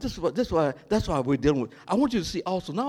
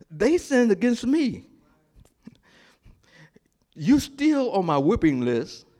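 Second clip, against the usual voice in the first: aggrieved complaint; 5 semitones higher, 4 dB louder than usual. Acted. Jonah's grievance voiced.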